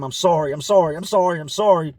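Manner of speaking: imitated sobbing scream of sorry; mock screaming. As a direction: scream the apology. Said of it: "he's starting to scream".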